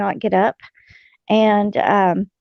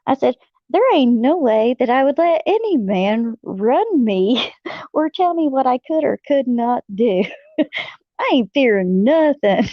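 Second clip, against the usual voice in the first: indignant; 3 semitones higher than usual. Retold or imitated. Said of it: "And I'm like".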